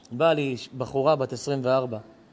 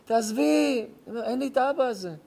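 much higher and louder brush-off; hammed-up father shrugging it off; imitating dismissive father; 10 semitones higher, 4 dB louder than usual. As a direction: wave it away like a brusque dad. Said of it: "אבא שלי שהיה חי, אומר לי".

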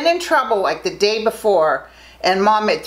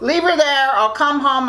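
mocking dad, laughing; 4 semitones higher than usual. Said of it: "He said".

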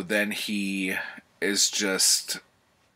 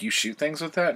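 higher-pitched, making fun; mocking; 8 semitones higher, faster than usual. Cowboy to gambler about his tiny gun, mocking. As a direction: imitate a cowboy poking fun in a high voice. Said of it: "making fun of it".

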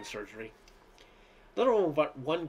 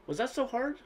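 indignant question; 10 semitones higher than usual. Acted. Daughter indignant at parents leaving.

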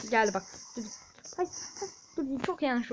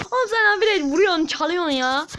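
annoyed complaint; 4 semitones higher, 5 dB louder than usual. Real, not acted. Teammate keeps stealing kills.

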